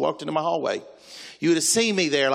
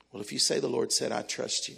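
hushed, lower acted reply; soft acceptance; 4 semitones lower, 7 dB quieter than usual. Wife accepts that the Lord said it, softly trusting. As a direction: say it quietly, yielding.

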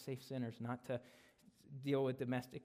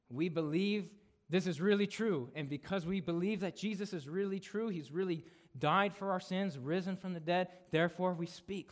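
fervent proclamation; 5 semitones higher, 6 dB louder than usual. Acted. Preacher voicing Paul's bold faith.

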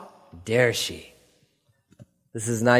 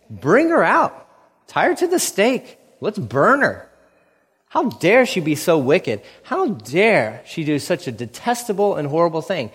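high, indignant preacher's outrage, half-hammed; mock outrage; 3 semitones higher than usual. Judah condemning Tamar, a hammed-up high outraged cry. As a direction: rail at her like a self-righteous judge. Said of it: "he's outraged".

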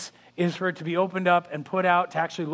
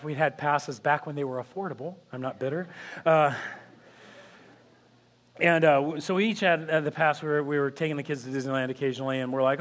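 normal talking voice

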